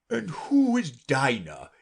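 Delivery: polite Lory. A narrator's reading.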